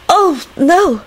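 put-on high, hesitant accented voice; flustered woman. A narrator's reading. Lady answers the Minister's apology, flustered. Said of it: "she stammered".

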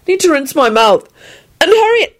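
high, nagging demand; importunate. A narrator's reading. Neville keeps demanding of Lupin, importunate. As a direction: keep pressing, pitch climbing. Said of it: "said importunately".

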